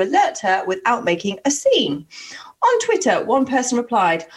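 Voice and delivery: deliberate, lilting read-aloud; news-story reading. A narrator's reading. Host reads dating news to a co-host, storyteller delivery.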